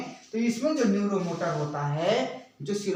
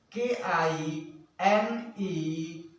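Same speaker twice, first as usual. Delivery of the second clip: slow, segmented spelling-out; letter by letter, drawn out; slow dictation; 2 semitones lower, much slower than usual. Real, not acted. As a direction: dictate slowly for note-takers. Spelling out a term for students.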